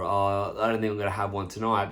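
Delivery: wishy-washy, half-hearted excuse; willy-nilly refusal. Retold or imitated. Drinker excusing himself for tonight, noncommittal. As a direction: beg off without conviction. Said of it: "you saying that willy-nilly".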